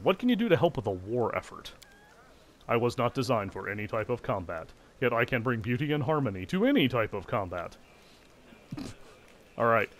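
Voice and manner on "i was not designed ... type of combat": choppy robotic golem voice; stiff, machine-like recital; clockwork automaton. Acted. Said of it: "staccato automaton voice".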